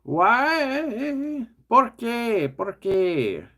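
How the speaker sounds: high, whining plea to the pieces; exasperated why. Real, not acted. Builder pleads with stubborn Lego pieces, high mock whine. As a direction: wail it up in mock despair.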